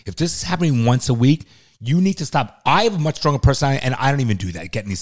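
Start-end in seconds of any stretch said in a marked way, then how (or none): 0.1-1.5 stern and earnest; dead serious. Real, not acted. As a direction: make them listen, pitch dropping. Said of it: "I'm dead serious right now".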